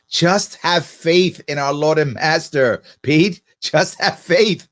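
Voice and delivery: slow, mock-solemn declaration of faith; lightly hammed-up devotion, drawn out; mock reverence. Host parodying the governor's devotees to viewers, mock reverence. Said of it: "I can't say that with a straight face".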